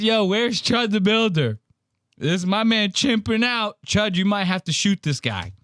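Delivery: excited shout to Chud; excited call out. Real, not acted. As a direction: call out to a friend, half laughing. Streamer calls on his friend.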